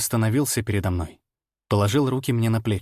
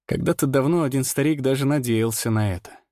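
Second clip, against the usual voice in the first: ordinary delivery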